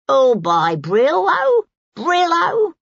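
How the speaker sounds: high, loud street-vendor cry, drawn out; fishmonger shouting. Acted. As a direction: call out your wares over the market crowd.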